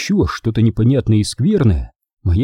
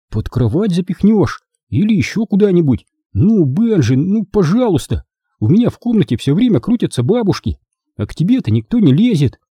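put-on high-pitched boy coaxing his friend; wheedling, higher-pitched appeal; pleading schoolboy; 8 semitones higher than usual. A narrator's reading. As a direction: plead in a raised boyish voice.

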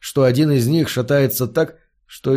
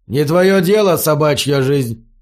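angry refusal. Acted. Brute refuses to answer.

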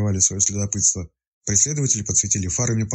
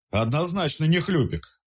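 wheezed; 8 semitones higher, slower than usual. A narrator's reading. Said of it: "просипел следователь".

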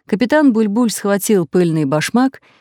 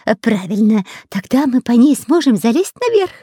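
higher, glad but still scared; relieved joy; 5 semitones higher than usual. A narrator's reading. Frightened spy cheering at the rope plan, relieved joy. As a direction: brighten up with hope. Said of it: "обрадовался перепуганный шпион".

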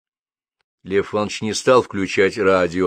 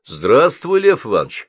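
higher, louder surprised greeting; raised voice of surprise on answering; 5 semitones higher, 5 dB louder than usual. A narrator's reading. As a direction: greet someone you did not expect. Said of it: "раздался удивлённый голос".

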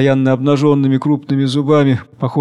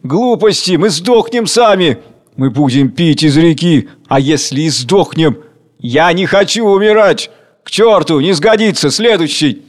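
loud, raised voices arguing; angry mob arguing over death; shouting crowd; 4 semitones higher, 4 dB louder than usual. Acted. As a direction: fling the lines at each other in a crowd. Quarrelling crowd at the meeting.

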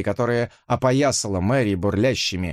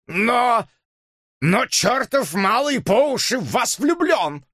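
much higher, slow indignant cry; exasperated outburst; 13 semitones higher, slower than usual. Acted. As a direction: sputter in protest. Dipps exclaims. (возмущённый выкрик)

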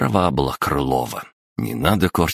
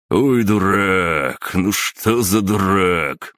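slow, despairing, higher; exasperated; 5 semitones higher, 4 dB louder, much slower than usual. Acted. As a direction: groan it like a coach in despair. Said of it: "схватился за голову Сан Саныч".

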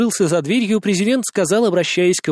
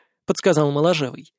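ordinary delivery, nothing marked

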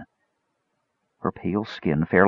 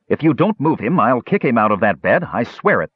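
warning; 4 semitones higher than usual. Acted. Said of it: "the half-elf warned".

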